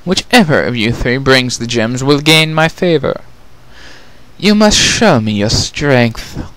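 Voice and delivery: a queen demanding proof of strength; stern queen. Acted. Queen addressing her three daughters, lightly regal.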